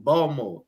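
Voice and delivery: "Baltimore" with no T, like "Balmo"; "Baltimore" squeezed to two syllables, no T; dropped T. Shown as a demonstration. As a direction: say "Baltimore" locally, swallowing the T. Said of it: "there's no T in it".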